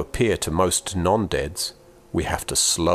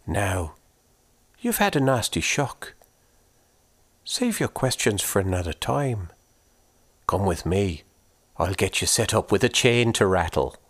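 curious and kindly; Una's voice. Acted. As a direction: ghost woman asking the boy about his corpse. Una voiced.

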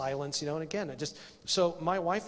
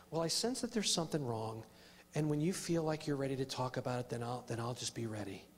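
sarcastic; 2 semitones lower, 4 dB quieter than usual. Retold or imitated. Husband offering to wait for his wife, understated sarcasm. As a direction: imitate overly understanding patience, sinking at the end. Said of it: "I got very sarcastic with Lynn".

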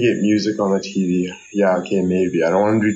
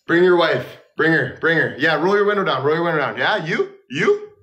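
high, hyped street shouting; hyped calling out; 6 semitones higher than usual. Pretend. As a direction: call out to a passing car.

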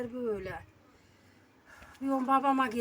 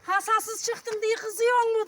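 calling out slowly and loudly; 8 semitones higher, 7 dB louder, slower than usual. Real, not acted. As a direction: shout it slow so he hears. Shouting question to deaf father.

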